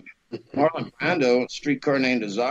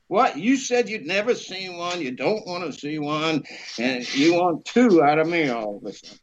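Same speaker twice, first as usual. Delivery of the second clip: playing tough. Student playing tough with the boss, indignant. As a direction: put on a mock-tough challenge. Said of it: "I had to play tough".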